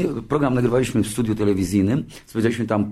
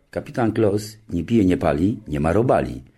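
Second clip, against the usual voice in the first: deadpan slogan delivery; 3 semitones lower than usual. Retold or imitated. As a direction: land each phrase with dry dignity.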